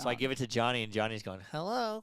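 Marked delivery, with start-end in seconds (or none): 1.5-2.0 imitating an Asian accent hello; a mock accented Asian hello. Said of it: "He's talking like a Chinaman".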